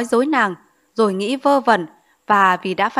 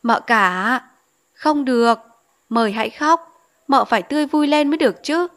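sweet coaxing; 3 semitones higher than usual. Acted. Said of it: "ngọt ngào vỗ vai nàng gọi".

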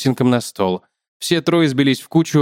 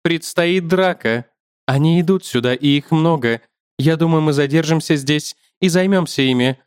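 lightly raised spider voice; a hint of a thin-voiced fighter spider; thin ringing spider; 3 semitones higher than usual. Spider warns the man of a fight, lightly thin voice.

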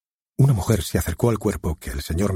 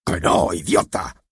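a mildly angry snap at the actor; slower than usual. Acted. The director scolding his actor, mildly angry. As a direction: scold him, only a touch heated. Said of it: "dijo airado Kirk".

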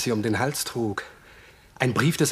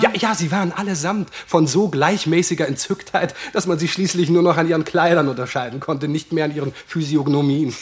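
amused; 3 semitones higher, 4 dB louder than usual. Acted. Amused courtier describing gaping faces.

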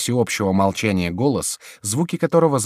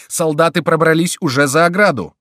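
high, loud, stretched-out warning; alarmed shout; 9 semitones higher, 8 dB louder than usual. A narrator's reading. Foulon spotting the Swiss guard, shouting. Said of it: "закричал Фулон".

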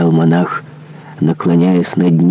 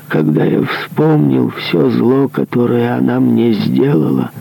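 higher, strained voice of a guilt-ridden executioner; remorseful executioner; 6 semitones higher than usual. Acted. Executioner confessing his grievance to the monk, higher and strained. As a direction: confess the old crime, higher and tense.

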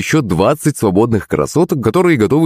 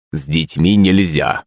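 low, slow bouncer bass; басом; 5 semitones lower, slower than usual. A narrator's reading. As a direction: rumble it like a big guard. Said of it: "пробасил он". (пробасил охранник)

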